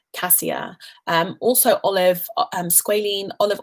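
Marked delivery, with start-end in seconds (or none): 0.1-0.8 cassia whispered, breathy and soft; whispered aside. Real, not acted. Whispering the answer again to her viewer, cassia hushed. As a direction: breathe cassia as a little secret. Repeating her recommendation softly.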